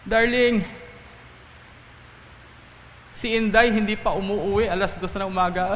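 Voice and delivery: lightly acted anxious wife appealing to husband; worried mother. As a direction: voice a fretting mother, mildly. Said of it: "talagang worried na worried na yung nanay".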